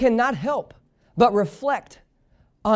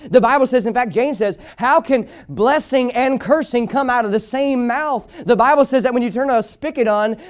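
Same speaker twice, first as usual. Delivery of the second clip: insistent, energetic sermon delivery; fervent preaching; 6 semitones higher than usual. Real, not acted. Preacher to church about gossip in God's household, fervent preaching. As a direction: press the point home like a preacher.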